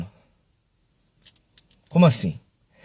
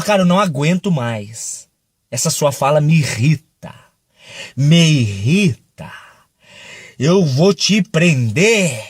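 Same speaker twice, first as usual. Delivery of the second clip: fed-up king; 5 semitones lower, slower than usual. Retold or imitated.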